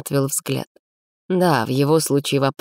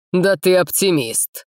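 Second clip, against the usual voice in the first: higher, slow, amused laughing; 5 semitones higher, slower than usual. A narrator's reading. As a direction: laugh it out at him. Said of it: "рассмеялся Ирхан".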